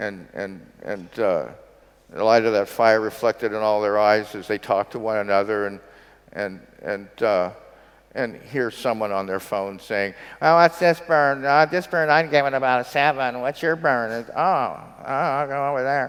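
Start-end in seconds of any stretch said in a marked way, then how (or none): 10.4-16.1 loud, pitched-up, satirical mocking tiny voice. Describing someone on their phone by a beach fire, satirical little-person voice. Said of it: "that's my satirical midget voice".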